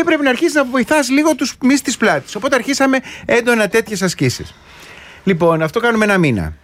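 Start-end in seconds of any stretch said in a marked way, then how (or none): 0.0-2.3 gym trainer. Retold or imitated. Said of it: "Και μου λέει".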